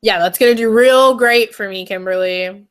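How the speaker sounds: loud, dry sarcasm; mock-grateful retort to a friend; sarcastic. Real, not acted. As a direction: lean hard on the fake approval. Sarcastic reply to offer of tissues.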